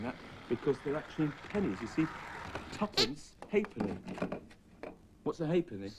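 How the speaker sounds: soft, low confiding voice; hushed show and tell. Acted. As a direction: share a treasure quietly with a child. Hushed showing stamps to Sooty.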